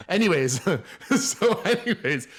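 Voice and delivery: laughing through the word anyways. Real, not acted. Laughing as he drops the celery rant and moves on. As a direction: chuckle it out and move on.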